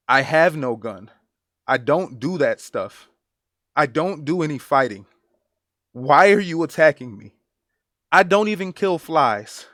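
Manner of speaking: retold plea, pressing harder on key words; earnest pleading. Man pinned by police begs them to let him go, earnest pleading. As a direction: quote his pleas with restrained urgency. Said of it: "he is begging them to let him go".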